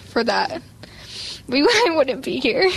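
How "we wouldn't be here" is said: laughing through tears. Real, not acted. Girl emotional about family.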